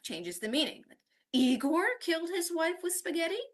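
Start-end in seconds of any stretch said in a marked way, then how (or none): 1.3-3.4 IGOR punched, then high questioning rise; stress on Igor. Shown as a demonstration. Teacher showing how stress changes meaning, Igor stressed as question. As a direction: query who did it, stressing "Igor". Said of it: "changing the stress in each".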